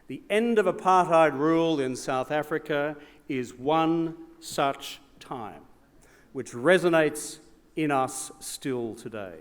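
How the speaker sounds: measured, rising oratory with big builds; formal speech. Acted. Former Prime Minister addressing the gala crowd, in grand formal oratory. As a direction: deliver it like a statesman's keynote.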